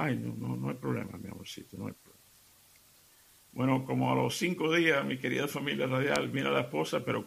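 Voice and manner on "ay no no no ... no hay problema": fading down to a soft, hushed "no hay problema"; tender forgiving. Acted. Husband soothes his apologizing wife, falling soft and tender. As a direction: let it melt into a gentle, softer murmur.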